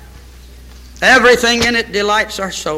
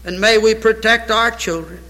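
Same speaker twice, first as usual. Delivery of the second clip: solemn prayer voice that swells in places and fades at amen; pastoral prayer. Acted. Pastor leading his church in closing prayer, solemn. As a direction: pray over the congregation, earnest and grave.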